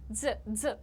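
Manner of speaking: ज as a buzzed dz, as in pizza; pizza-like dz sound. Shown as a demonstration. Teacher drilling the sound in clothes, short buzzed ज. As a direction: isolate ज, a short dz. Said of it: "जैसे पिज्जा में ज आता है".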